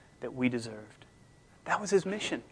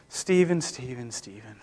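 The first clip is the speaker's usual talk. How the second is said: each call lower and softer, fading away; emphatic repeated calling; 3 semitones lower, 4 dB quieter than usual. Shown as a demonstration. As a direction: call the name, letting it die out. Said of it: "There's this sort of emphatic sense".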